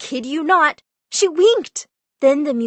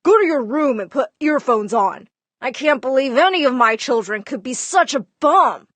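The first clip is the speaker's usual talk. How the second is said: dad yelling; 4 dB louder than usual. Retold or imitated. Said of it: "Dad would yell at me".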